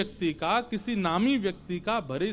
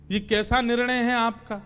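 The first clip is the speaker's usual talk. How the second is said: acted-out exasperation, pitched up; exasperated complaint; 3 semitones higher than usual. Arjun protests Krishna's contradictory orders, mildly exasperated. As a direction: rattle off the grievances in a higher voice.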